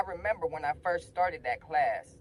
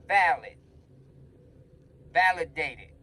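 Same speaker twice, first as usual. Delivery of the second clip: loud, punched one-word cheers; cheerleading; 8 dB louder than usual. Retold or imitated. Student backing Mister Racina against Miss Geller, cheering loudly. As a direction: shout it like a cheerleader backing the winner. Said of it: "got my pom-poms out".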